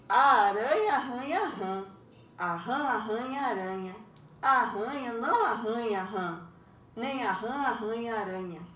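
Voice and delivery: careful tongue-twister recitation; tongue twister aloud. Shown as a demonstration. Teacher showing pupils a tongue twister, recited aloud. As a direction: recite each line evenly, pausing between lines. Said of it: "leia o trava-língua a seguir em voz".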